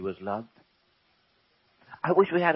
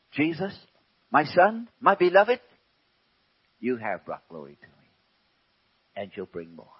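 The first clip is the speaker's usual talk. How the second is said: loving Father; 3 dB louder than usual. Acted. Father answering Jesus.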